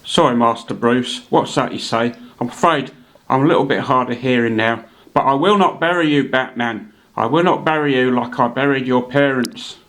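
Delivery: lightly voiced old butler, a touch hard of hearing; understated Caine imitation, solemn promise at the end; Alfred answering his master, mild Caine impression; Michael Caine as Alfred. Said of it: "here's a word from Sir Michael Caine".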